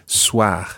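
soir ending in a French throat R; soir with guttural R. Shown as a demonstration. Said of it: "a guttural R at the end".

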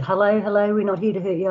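mild, lifted peace-making call; reassuring call. Retold or imitated. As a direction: call out lightly that you come in peace. Calling out to unseen hairy man.

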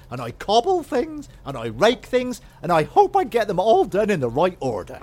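a light, eager servant voice; chirpy maid listing her chores; eager maid character. Acted. Maid answering her master, lightly put on.

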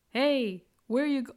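loud, high Caribbean call-out; Caribbean accent. Retold or imitated. Locals hailing her on the bicycle, imitated Caribbean accent. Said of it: "sorry for the accent".

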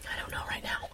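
tearful, breathy whisper; whimpering whisper. Real, not acted. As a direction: whisper through the burn. Overwhelmed by spicy chips.

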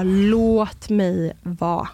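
retold scream. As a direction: recount a scream, stretching each word slowly. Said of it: "jag skriker och vrålar".

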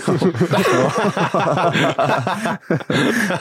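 nervous little laugh; uneasy laugh that trails off; awkward laugh. Real, not acted. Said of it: "That's an awkward laugh".

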